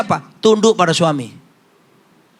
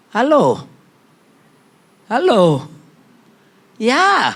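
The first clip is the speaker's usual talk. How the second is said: prompting a quiet crowd; 3 semitones higher, much slower than usual. Real, not acted. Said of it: "Kok sepi?".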